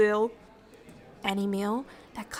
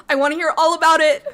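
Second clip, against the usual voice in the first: laughing; 5 semitones higher, 10 dB louder, faster than usual. Acted. Eager to hear guest's day.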